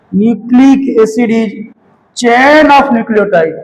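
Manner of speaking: very slow, word-by-word dictating pace; slow classroom dictation. Shown as a demonstration. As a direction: drag each word out for note-taking. Teacher dictating definition to class.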